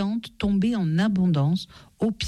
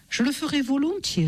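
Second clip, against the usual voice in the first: lightly voiced gentle moon, higher; a hint of a tender moon; 8 semitones higher than usual. A narrator's reading. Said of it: "répondit la lune gentiment".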